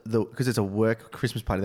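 ordinary talk, nothing marked

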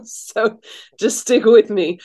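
stuffy, blocked-nose voice. Real, not acted. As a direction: speak through a blocked nose. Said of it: "I can't breathe through my nose".

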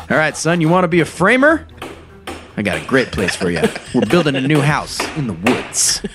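folksy foreman offering a job; gruff boss voice. Retold or imitated. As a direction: play the crusty boss.

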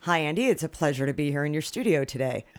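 overly formal put-on voice; prim, professional mock-polite; exaggerated cartoon intonation. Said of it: "why are you talking like that".

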